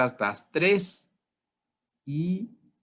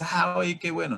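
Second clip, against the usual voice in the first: mock cheerful; 6 semitones higher than usual. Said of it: "te vas a resignar feliz".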